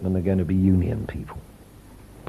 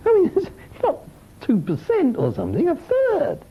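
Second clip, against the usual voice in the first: amazed. Real, not acted. Amazed at his own projection.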